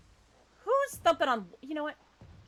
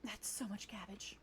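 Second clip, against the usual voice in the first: soft unvoiced whisper; 2 semitones lower, 14 dB quieter than usual. Real, not acted. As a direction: breathe it out in awe. Awed aside to herself.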